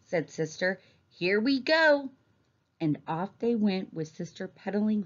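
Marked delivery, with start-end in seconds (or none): 1.1-2.1 put-on high, drawn-out child's send-off; mildly excited, lifting the pitch as you set off; eager young rider, higher and slower. A narrator's reading. Child sets off on trike.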